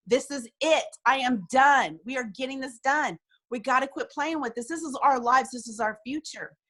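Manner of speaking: firm, insistent pep talk to the team; emphatic rallying. Retold or imitated. Leader telling her team she is done playing, emphatic rallying. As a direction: declare it with rising conviction.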